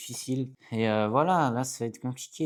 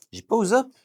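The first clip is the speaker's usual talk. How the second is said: dismayed outcry; 9 semitones higher, 9 dB louder than usual. Real, not acted. Realizes his favourite card missing.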